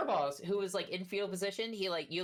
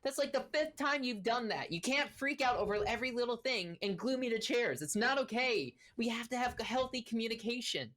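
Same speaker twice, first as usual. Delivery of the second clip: high scolding gnome; 8 semitones higher than usual. Acted. Nurgle lays into Korboz for gluing him to chairs, high and scolding. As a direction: tell off your partner like a fed-up little gnome. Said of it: "laying into Korboz".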